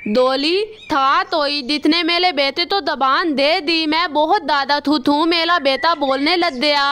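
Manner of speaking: lisped, "अथा दो तल" for "अच्छा तो सर"; lisping crow. Acted. Kalu crow to the doctor, lisping after the surgery. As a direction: say "थाता" with a childlike lisp. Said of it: "तुम ऐसे क्यों बोल रहे हो?".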